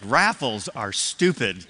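a first grader pouting on the walk home; mock dejection. First grader walking home after winning towels, mildly sulky. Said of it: "walking home so dejected".

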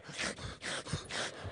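mock sobbing without voice; imitated crying. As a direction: act out a big man's heaving sobs. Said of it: "They go".

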